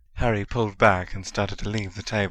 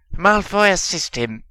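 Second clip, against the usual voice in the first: commanding; 10 semitones higher, 8 dB louder than usual. A narrator's reading. Dark Lord commanding.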